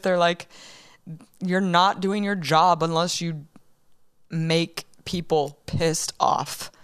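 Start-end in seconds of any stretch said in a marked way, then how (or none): 1.4-6.7 halting, choked-up delivery with pauses; getting emotional. Real, not acted. Host recalls officers' encouragement, getting emotional. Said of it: "I'm getting emotional".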